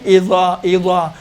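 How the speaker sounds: اذا thick, with rounded lips, "izaw"; heavy zaa. Shown as a demonstration. Teacher shows students the heavy zaa. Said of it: "موٹا ادا ہوتا ہے".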